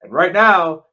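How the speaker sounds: punchy radio ad delivery; a host reading an ad for the listeners; sponsor ad read. Acted. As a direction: sell the survival food like a radio spot. Reads sponsor ad.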